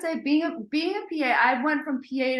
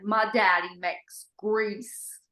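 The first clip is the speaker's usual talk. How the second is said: put-on Mississippi kid accent; much slower than usual. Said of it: "the dad was like".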